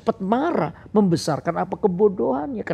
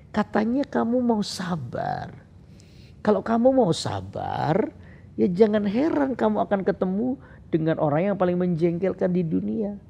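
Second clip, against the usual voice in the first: God's answer; 3 semitones higher than usual. Retold or imitated. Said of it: "Saya bilang, Tuhan".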